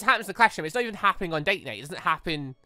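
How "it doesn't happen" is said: normal talking voice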